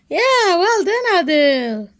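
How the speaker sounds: high, loud praise; excited praise. Real, not acted. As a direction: cheer him on brightly. Mother praising toddler's sand drawing.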